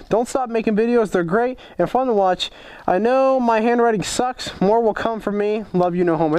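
a hint of a twelve-year-old boy reading his own letter; lightly voiced kid.

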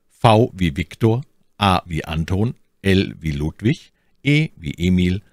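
spelling a name over the phone; each letter with its code word, clearly paced. Shown as a demonstration. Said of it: "Wie buchstabiere ich jetzt meinen Namen".

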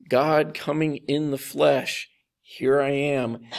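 slow, deliberate mild exasperation; a little exasperated. Retold or imitated. Jesus pointing to himself for his disciples, a little exasperated. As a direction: spell it out slowly, a touch exasperated. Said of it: "Jesus seems a little exasperated here".

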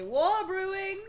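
high, loud exclamation; calling out. Acted. Reacting to the game, high loud call.

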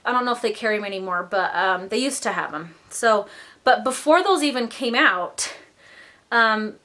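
breathless, talking between breaths; winded, gasping lightly between phrases. Real, not acted. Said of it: "I'm out of breath".

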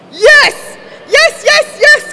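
ecstatic high-pitched scream. A narrator's reading. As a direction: scream it at full force. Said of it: "Cassandra screamed".

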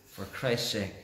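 earnest, measured pastoral prayer. Acted. Opening prayer before the sermon.

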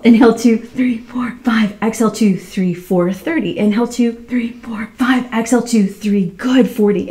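breathless counting through the effort, often dropping to a whisper; strained counting. Real, not acted. Instructor doing the hundred with the class, counting breathlessly. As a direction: count it out while working hard, breath running short.

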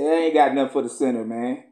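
quick casual God. Retold or imitated. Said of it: "he said".

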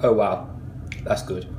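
chewing between words; talking around food; mouth full of pastry. Real, not acted. Seen 0: Bites pastry at -4, mouth still working while talking; bites again at 1.3.

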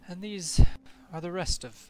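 mock-grand NPC presentation; proud announcement. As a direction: present the flock with pride. NPC presents her griffins.

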